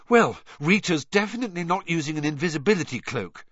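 out of breath, panting words. A narrator's reading. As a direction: pant it out after running. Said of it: "Hermione panted".

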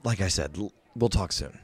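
a hint of a tired fighter laying low; Yagra. Yagra again.

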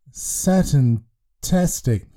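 slow, half-hearted enthusiasm; a boy faking delight over an odd lollipop; unconvincing. Acted. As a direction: force out a cheer you don't feel. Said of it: "Curtis said, unconvincingly".

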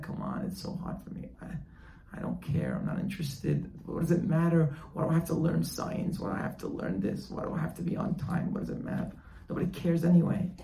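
softly grumbled excuses; reluctant complaining son. Acted. Unwilling son making excuses to his father, grumbling. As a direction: grumble it under the voice, running on.

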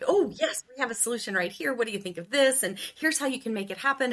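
eager sales pitch. Retold or imitated. Saleswoman pitching a home-buying solution to a client, eager and quick. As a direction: sell it like the answer is right here.

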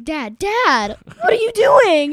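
panicked high shout. Retold or imitated. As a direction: yell at Dad in panic, voice jumping way up. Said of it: "I was like".

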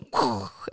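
whooshed mock explosion noise; imitated explosion. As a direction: make the sound of something blowing up. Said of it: "then it would be like".

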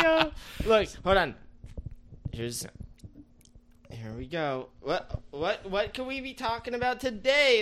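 high, mocking impression of the family; lightly voiced pizza family. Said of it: "They're like".

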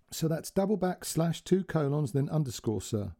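polite helpful operator reading instructions; a hint of an Indian call centre voice; call centre girl. Call centre girl's quotes.

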